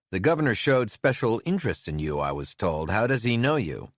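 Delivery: a curious lawman calling over the racket. Acted. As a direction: Brazil pressing over the engine. Brazil talking over engine.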